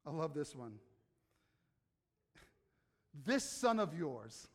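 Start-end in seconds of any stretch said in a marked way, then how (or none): 3.2-4.5 slow, scornful, leaning on this; judgmental disdain. Retold or imitated. Preacher mocking a judgmental father, slow scornful disdain. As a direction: spit out this son like a stranger's. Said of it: "there's the spirit of judgment".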